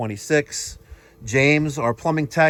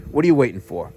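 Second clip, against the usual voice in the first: infomercial pitch; 3 semitones lower, 3 dB louder, faster than usual. Acted. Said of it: "I sound like an infomercial".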